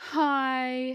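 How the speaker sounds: drawn-out, high-pitched, mournful, sorrowful tone. Imitating how the mother-in-law answers the phone: imitating a sad phone greeting. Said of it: "like she's just gotten terrible news".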